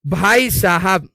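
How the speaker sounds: slow, stretched भाई साहब; slow comic exclamation; drawn-out exclamation. Real, not acted. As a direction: drag it out. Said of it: "drawn-out exclamation".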